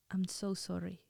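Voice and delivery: soft, barely voiced apology; whispered apology. Apologizing to her girlfriend in a soft whisper. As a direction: breathe the words out softly. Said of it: "And I just whispered".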